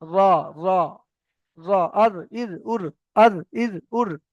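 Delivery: র, আর, ইর, উর with the tongue tip's back on the palate; articulation drill. Shown as a demonstration. Teacher models the ra, turned-tongue r in র, আর, ইর, উর. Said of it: "আগার উল্টো পিঠটা গিয়ে লাগবে".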